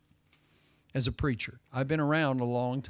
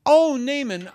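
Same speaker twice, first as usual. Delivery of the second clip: higher, louder fawning call; wheedling servant; 10 semitones higher, 8 dB louder than usual. Retold or imitated. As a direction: sweetly call after him to get his attention. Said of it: "Gehazi follows after Naaman and says".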